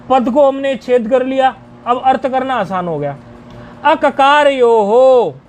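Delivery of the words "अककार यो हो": slow, word-by-word teaching delivery; drawn-out, separated syllables; deliberately broken up. Shown as a demonstration. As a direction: split the phrase apart so learners follow. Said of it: "तोड़ के बोल रहे हैं जानबूझ के".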